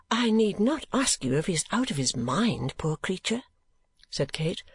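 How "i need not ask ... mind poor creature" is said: put-on higher, gentle young woman; a pitying young lady; lightly raised young woman's voice; Kate's voice. Kate speaks.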